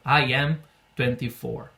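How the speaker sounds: slow, clear English answer; slow model answer. Shown as a demonstration. Teacher gives a slow example answer for students. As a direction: say it slowly to be copied. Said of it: "por exemplo".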